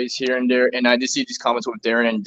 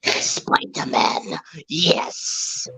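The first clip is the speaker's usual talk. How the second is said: whisper; 3 semitones higher, 4 dB quieter, much slower than usual. Acted. Whispered name.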